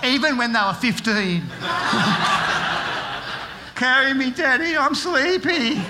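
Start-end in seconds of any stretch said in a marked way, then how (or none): 3.8-5.8 mock whiny child begging to be carried; a teen faking sleepiness, hammed-up; imitating sleepy kid. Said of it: "my kids used to always pretend to be asleep".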